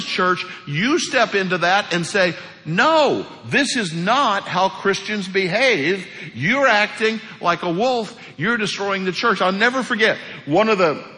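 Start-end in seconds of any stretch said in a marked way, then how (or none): 2.6-9.4 firm confrontation. Pretend. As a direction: confront them head-on. Confronting a wolf in church.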